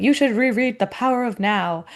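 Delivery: lightly imitated Welsh lilt; a touch of dad's Welsh accent. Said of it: "in his Welsh accent".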